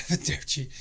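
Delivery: breathless, laughing whispered echo. Real, not acted. Echoing his cohost's joke farewell through laughter.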